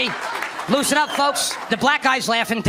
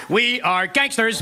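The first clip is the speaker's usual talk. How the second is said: tough guys; 2 semitones lower, much slower than usual. Retold or imitated. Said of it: "they looked at me and they went".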